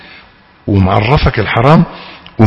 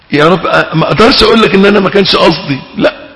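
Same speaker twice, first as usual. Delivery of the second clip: quick, raised plea to God; pleading sinner; 6 semitones higher, faster than usual. Acted. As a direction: rush the plea, fretful and higher. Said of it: "تقول له". (تائب يتوسل لربه بسرعة وصوت مرتفع)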